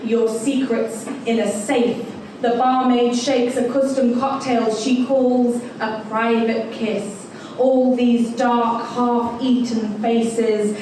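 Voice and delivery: measured, deliberate performance poetry reading; poem recital. Acted. Host reads Dive Bar to the crowd, poem recital. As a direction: recite it line by line, drawing out key phrases.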